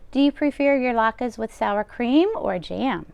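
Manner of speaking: bustle like a kind deaf baba; old grandmother voice. Acted. Old baba taking the rabbi's coat, high and fussing. Baba voicing lines to Bear.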